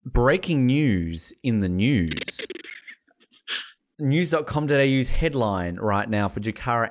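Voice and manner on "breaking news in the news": mock newsreader announcement. Mock news bulletin intro.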